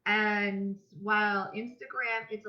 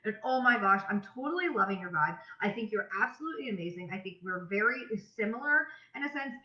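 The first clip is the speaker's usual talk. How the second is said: bubbly, upbeat voice-memo greeting; demo voice memo; 3 semitones higher, 3 dB louder than usual. Shown as a demonstration. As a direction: gush like you're messaging a new friend. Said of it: "And I'll be like".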